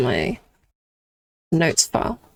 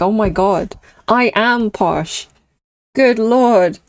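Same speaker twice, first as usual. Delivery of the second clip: playful, slightly posh British exclamation; mock posh voice; 3 semitones higher, slower than usual. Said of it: "I really hear it in my voice".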